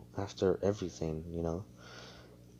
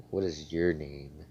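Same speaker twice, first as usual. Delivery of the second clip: slow, mildly disdainful question; disgusted tone; 3 semitones lower than usual. Retold or imitated. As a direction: ask with a touch of acted disgust. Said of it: "she says it in a disgusted tone".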